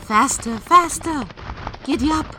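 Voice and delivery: spurring the horse on, rising; urging shout. Acted.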